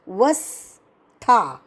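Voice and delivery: वस्था slow with व stressed. Shown as a demonstration. Teacher shows where the stress falls, slow. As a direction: lean on व in वस्था, slowly. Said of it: "व पर आघात".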